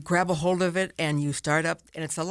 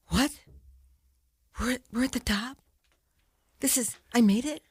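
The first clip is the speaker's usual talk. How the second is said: amazed disbelief; 5 semitones higher than usual. Retold or imitated. Disbelief reaching the top.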